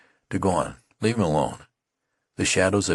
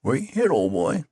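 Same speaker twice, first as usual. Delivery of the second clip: kindly concern, raised a little; brotherly tone; 9 semitones higher than usual. A narrator's reading. Tattered man asks the youth gently, brotherly. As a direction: ask gently like an older brother. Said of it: "he asked in a brotherly tone".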